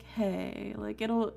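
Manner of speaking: ordinary talk, nothing marked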